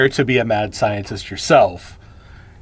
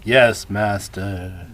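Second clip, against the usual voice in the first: sinking into a low, soft henchman act; belittled servant voice; 5 semitones lower, 3 dB quieter, much slower than usual. Retold or imitated. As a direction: remember to play the lowly servant, dropping pitch and volume. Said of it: "kinda belittle himself and use this, this voice".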